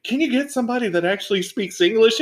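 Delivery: quoting Trinity as a rapper. Retold or imitated. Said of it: "when she's like".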